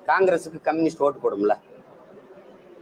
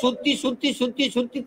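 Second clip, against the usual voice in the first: spinning singsong; 7 semitones higher, 4 dB quieter than usual. Retold or imitated. Mimics spinning top.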